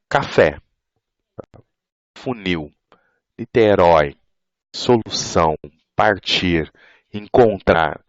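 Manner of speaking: 'café, funil, Niterói, solução, partir, encontrar' each stressed on the final syllable; last-syllable stress. Shown as a demonstration. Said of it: "o acento ele recai na última sílaba".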